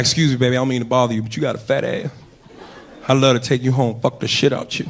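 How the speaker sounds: put-on low, easy American accent come-on; casual American pickup line; lightly put-on American accent. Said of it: "in an American accent".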